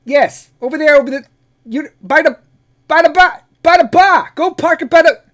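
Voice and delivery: very high, loud, exasperated Boston shouting; angry Boston guy. Acted. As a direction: yell directions in a hammed-up Boston accent, losing patience. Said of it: "they get fucking angry".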